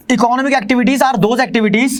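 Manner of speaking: slow, spaced dictation of a definition. Shown as a demonstration. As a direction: read it out slowly so students can copy. (धीमी गति से परिभाषा लिखवाते हुए)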